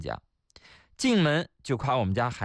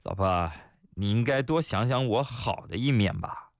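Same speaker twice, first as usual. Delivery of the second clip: lower, level reply to a scolding wife; calm and even-tempered; 4 semitones lower than usual. Acted. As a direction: keep it composed, reason with her gently. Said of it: "我平心静气地说". (平心静气)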